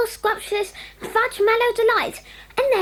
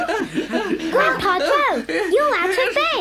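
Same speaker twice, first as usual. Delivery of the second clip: laughing surprise; slower than usual. Acted. Family laughing, grandpa out of bed.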